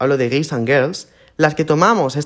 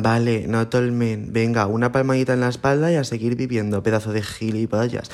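sarcastic mock reply; 3 semitones lower, 4 dB quieter than usual. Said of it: "luego me vienen los frustraditos".

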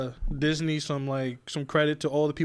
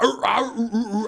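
imitating sand people growls; 3 semitones higher than usual. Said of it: "They sound like monsters growling".

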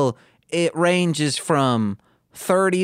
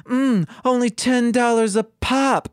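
Snagglepuss voice; 8 semitones higher than usual. Acted. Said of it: "Snagglepuss says".

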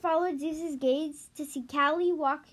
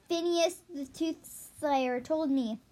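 matter-of-fact. Acted. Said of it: "Zeus said matter-of-factly".

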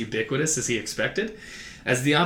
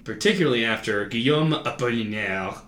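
put-on French accent. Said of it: "continue speaking that accent".

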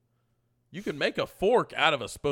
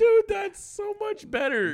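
excited; 5 dB louder, slower than usual. Real, not acted. Excited choosing spaghetti hair.

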